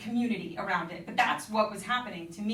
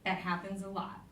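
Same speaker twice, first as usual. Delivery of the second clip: imitating a matter-of-fact woman, softer; 5 dB quieter than usual. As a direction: state it softly as simple fact. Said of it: "for a matter of fact woman".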